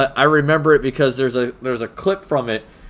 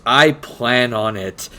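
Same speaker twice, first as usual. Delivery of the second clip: deadpan retort; much slower than usual. Retold or imitated. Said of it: "just deadpan looks at him and goes".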